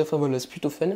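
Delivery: normal talking voice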